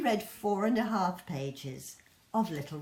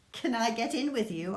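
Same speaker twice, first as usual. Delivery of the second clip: put-on eager child; 4 semitones higher, 4 dB louder, faster than usual. Little one asks mum.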